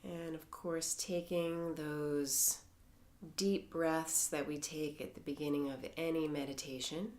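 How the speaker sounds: calm, measured meditation voice with long pauses; guided meditation. Acted. Teacher leading members through a mindfulness body scan, calm guided meditation.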